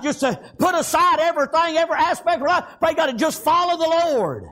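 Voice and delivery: driving revival sermon cadence; rolling country-church preacher delivery; fervent preaching. Real, not acted. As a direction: preach it with conviction, stretching the final words. Preaches with drive.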